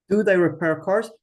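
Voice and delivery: the question read with a rising tune. Shown as a demonstration. Teacher reads the question aloud for her class. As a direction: ask "Do they repair cars?" with a lift. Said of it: "you don't need the do".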